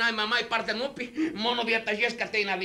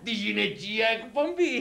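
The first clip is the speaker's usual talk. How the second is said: knowing repeat; slower than usual. Acted. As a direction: let it sink in slowly, chuckling. Repeats the show title, first take.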